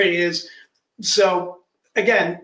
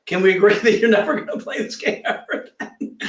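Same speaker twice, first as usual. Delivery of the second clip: laughing. Retold or imitated. Joking at the kid's expense.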